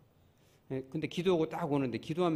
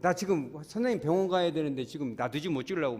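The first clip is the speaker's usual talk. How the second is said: raised, fretful complaint; mock irritation; 3 semitones higher, 4 dB louder than usual. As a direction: imitate a patient cross about being late. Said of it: "막 그냥 막 역정을 내더라고".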